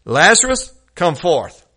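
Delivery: calling out loud to the grave; a loud commanding cry, rising on the name; preacher calling Lazarus loudly out of the tomb. Acted. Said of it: "he cried with a loud voice".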